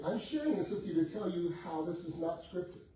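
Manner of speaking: ordinary delivery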